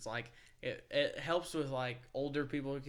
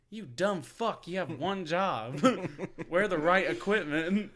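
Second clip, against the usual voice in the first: laughing scold; 4 semitones higher, 5 dB louder, slower than usual. Real, not acted.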